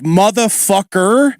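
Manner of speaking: slow drawn-out Philly LA hybrid accent. Shown as a demonstration. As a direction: stretch it slowly in a Philly LA accent. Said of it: "So I'll say".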